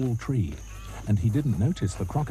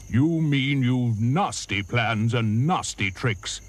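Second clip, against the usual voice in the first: elephant retort; slower than usual. Acted. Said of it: "said Trunky".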